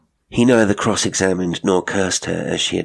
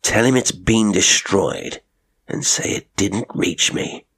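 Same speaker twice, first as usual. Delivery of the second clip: steely order, weight on "didn't reach me"; emphatic final words. A narrator's reading. Colonel instructing his cook, emphasis on "didn't reach me". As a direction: lean hard on "didn't reach me". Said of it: "laying tremendous emphasis on the final words".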